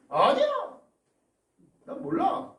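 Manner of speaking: high, loud startled cry of denial; panicked denial. Acted. Peter startled by the girl, shouting a high panicked denial.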